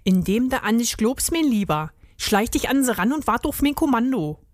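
lightly voiced Berlin-dialect rat; brief him like a streetwise ringleader; commanding Berlin rat. Rat instructing the hedgehog, Berlin dialect.

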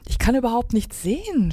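restrained acted yell; mild storybook cry. A narrator's reading. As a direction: cry out without real volume. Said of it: "schrie Pip".

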